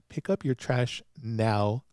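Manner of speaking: slow, loud retold order; commanding. Detective orders the husband to pick up litter, slow and commanding. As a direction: give a firm, deliberate command. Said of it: "and very commanding".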